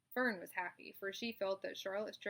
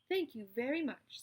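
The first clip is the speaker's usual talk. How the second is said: raised, louder spider voice; spider's speech; 4 semitones higher, 5 dB louder than usual. Acted. Charlotte explains her trick to the animals, confident. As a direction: address the barn like a chairwoman.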